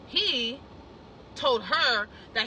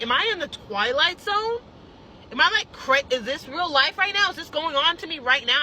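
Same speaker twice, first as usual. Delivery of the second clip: incredulous; 3 semitones higher, 5 dB louder than usual. Retold or imitated. Retold disbelief at the manager.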